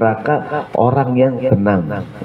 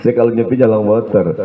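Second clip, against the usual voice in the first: laughing joke dialogue. Acted.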